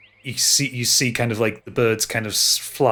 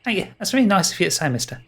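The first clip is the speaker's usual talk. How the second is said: put-on bashful high boyish voice; 6 semitones higher, faster than usual. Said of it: "beams up at you and says".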